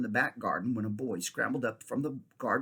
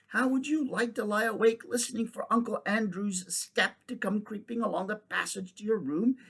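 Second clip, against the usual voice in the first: put-on higher, hushed boy telling a scary secret; a touch of creepy storytelling; spooky boy's tale; 8 semitones higher than usual. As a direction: try to spook her. Boy spooks girl with uncle.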